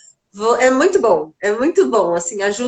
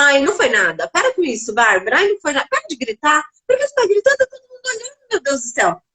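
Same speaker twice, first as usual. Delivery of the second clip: a hint of an exasperated mum, rising higher near the end; impatient mother; 4 semitones higher, faster than usual. Mother acting the impatient parent she avoids being, mildly exasperated. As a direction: play the embarrassed impatient parent. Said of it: "e se eu fico naquela".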